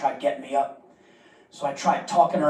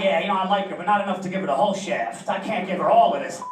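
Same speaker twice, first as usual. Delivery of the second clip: mock dude voice; 4 semitones higher than usual. Mocking the dude's logic.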